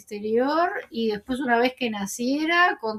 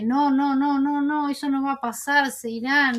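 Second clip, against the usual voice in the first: lightly acted protest, pitched up; insistent denial, retold; 3 semitones higher than usual. Niega desesperado ante su esposa, recreado. (negación insistente, levemente actuada)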